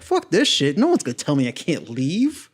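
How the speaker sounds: retold indignant protest; upset defiance. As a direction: act out refusing to be held back. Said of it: "I was so upset".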